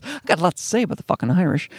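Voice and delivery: mildly menacing mock threat; mock ominous. Comedian mocking his own remark about the Irish, ominous. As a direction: play up the ominous undertone a little. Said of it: "it sounded ominous".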